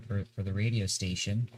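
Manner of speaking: stumbling over words, sleep-deprived; halting and repeating words from no sleep; stammering. Real, not acted. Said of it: "I keep stammering because I've, I've not slept".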